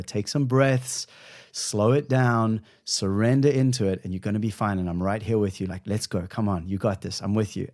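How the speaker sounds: gentle, encouraging self-talk, easing into it; kind inner voice. Retold or imitated. Gentle coaching voice to himself before the ice bath. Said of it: "the voice that works is the voice that goes".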